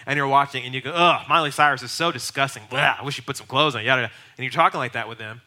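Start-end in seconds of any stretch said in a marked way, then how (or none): 0.9-4.1 louder mock revulsion; disgusted. Judgmental Christian talking to coworkers about TV, disgusted. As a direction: complain with a theatrical "ugh" and "blah".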